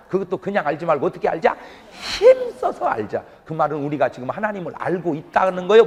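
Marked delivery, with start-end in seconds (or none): 1.9-3.2 힘써서 lifted high and drawn out slowly; emphatic high stress. Acted. Preacher urging the congregation, 힘써서 high and slow.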